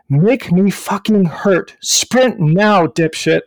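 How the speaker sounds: drawn-out, retold demand with a hint of Boston; imitated cursing. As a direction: curse out your pacer, in imitation. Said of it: "just cursing at me in that Boston accent".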